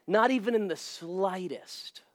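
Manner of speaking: slow, earnest assurance; sincere denial. Real, not acted. Pastor assuring listeners he wasn't bothered, slow and sincere. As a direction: say it slowly, meaning every word. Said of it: "I'm being as sincere as I can".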